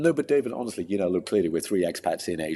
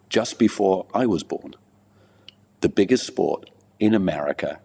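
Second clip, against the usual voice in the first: poem recital; 2 semitones higher than usual. Acted. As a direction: recite it like a performance poet, pausing between phrases. Recites his poem on racing.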